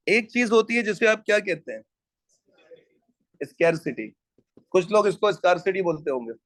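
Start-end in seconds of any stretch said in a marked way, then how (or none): 3.4-4.1 स्कैरसिटी with a "skair" first syllable; preferred pronunciation. Shown as a demonstration. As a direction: say स्कैरसिटी to rhyme its start with "scare". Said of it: "स्कार्सिटी नहीं है ये".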